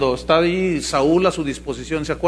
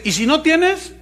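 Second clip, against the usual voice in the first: mock televangelist. Preacher imitating a televangelist pushing bank loans. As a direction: urge them to borrow for the offering.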